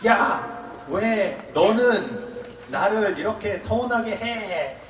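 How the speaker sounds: slow, spaced-out reproach; accusing. Shown as a demonstration. Monk shows how not to confront a friend, slow accusing. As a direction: drag out a mock accusation, word by word. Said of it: "이렇게 말하면 안 돼요".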